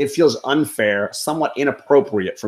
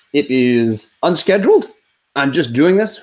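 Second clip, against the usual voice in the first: voice crack. Real, not acted. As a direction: voice cracking on unscheduled. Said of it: "voice crack there".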